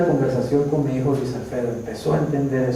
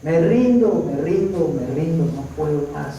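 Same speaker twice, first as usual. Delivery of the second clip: retold tearful surrender; 3 semitones higher, slower than usual. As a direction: cry out in imitated despair, slowly giving up. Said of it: "solamente a llorar y decirle".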